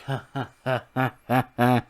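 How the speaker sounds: deliberate, separated ha-ha-has; put-on staccato laughter; mock laugh. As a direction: fake a laugh one beat at a time. Acting Tyler Breeze's entrance laugh.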